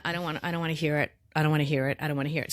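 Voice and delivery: rapid repeated refusal, kept low; mock stubborn refusal. Reader recalling being closed off during tarot, mock stubborn. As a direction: rattle it off as if shutting someone out. Acts out her own refusal.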